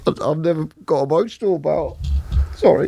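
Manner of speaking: high, tearful voice breaking into pauses; fighting back tears to get the words out; real choked-up emotion. Real, not acted. Man apologising to his mate for getting emotional, choked up. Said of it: "it's making me emotional".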